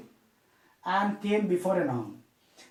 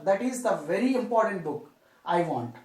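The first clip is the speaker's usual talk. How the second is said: "very" given the main emphasis; emphatic "very" as a teacher's example; stress on "very". Shown as a demonstration. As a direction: lean on "very", easing down afterwards. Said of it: "emphasizing that particular book".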